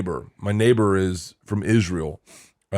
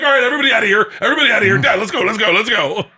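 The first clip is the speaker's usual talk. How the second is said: herding everyone out; 9 semitones higher, 5 dB louder, faster than usual. Retold or imitated. Clearing everyone out of party.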